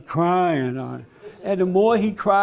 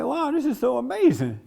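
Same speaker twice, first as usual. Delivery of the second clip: higher-pitched wow of wonder; stunned amazement; 5 semitones higher than usual. Retold or imitated. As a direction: marvel at it, genuinely stunned. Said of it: "I'm stunned".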